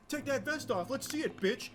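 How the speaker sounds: high-pitched imitation of a cocky young man yelling; a hammed-up high tough talk, like a voice cracking mid-rage; mock high tough-guy yell. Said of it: "He went from, like".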